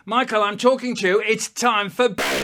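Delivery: impatient mother calling; imitating an exasperated mum; mum shouting. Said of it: "No need to shout".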